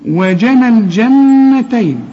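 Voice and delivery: slow recitation of "وجنى الجنتين", every letter kept light; light thin letters. Shown as a demonstration. Teacher models the verse words, slow light recitation. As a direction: draw out "الجنتين" with thin vowels and a held n. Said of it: "حروف مرققة".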